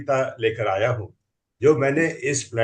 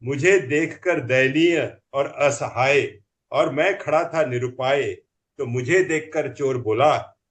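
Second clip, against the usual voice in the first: comic poem recital; 2 semitones higher than usual. Acted.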